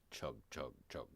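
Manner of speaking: low, soft train chugging; train chug. A narrator's reading. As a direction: chug quietly like a little train. Narrator voices the train sound.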